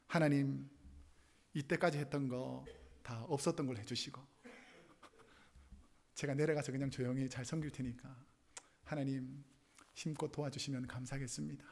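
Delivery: low, soft, subdued plea to God; repentant prayer. Retold or imitated. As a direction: pray humbly, voice dropped. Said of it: "하나님 앞에 회개하고". (낮고 조용하게 회개하는 기도)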